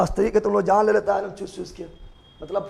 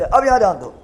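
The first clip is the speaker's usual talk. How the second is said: raised voice to grab the class; louder, snapping students to attention; loud call for attention; 6 dB louder than usual. Real, not acted. Teacher loudly calls the class to attention.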